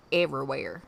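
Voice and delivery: "Everywhere" with a Southern twang; country-accented "Everywhere". Shown as a demonstration. Word repeated in Southern accent.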